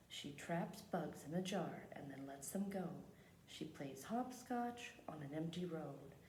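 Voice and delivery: measured picture-book reading; read-aloud narration. Acted. Teacher reads a picture book to the class, measured storytelling. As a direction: read the story out unhurriedly, phrase by phrase.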